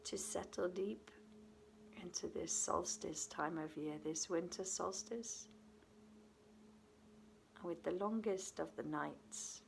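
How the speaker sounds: unhurried meditation guidance with long pauses between phrases; guided meditation. Acted. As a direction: settle the listener gently into rest, leaving space after each phrase.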